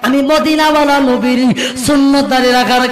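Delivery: slow, sung-out sermon with very long held vowels; drawn-out, ringing calls in a preacher's chant; full-voiced melodic preaching. A narrator's reading. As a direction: chant the dream story out to the crowd.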